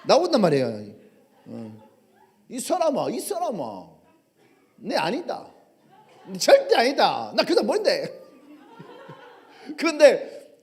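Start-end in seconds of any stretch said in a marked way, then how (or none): 2.5-8.1 Gyeongsang dialect denial. Acted. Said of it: "베드로가 사투리를 쓰는 거야".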